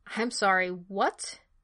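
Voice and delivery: thunderstruck, stunned. Hardison, just told the man was transferred to the BPO, reacts; thunderstruck. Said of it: "In one thunderstruck moment".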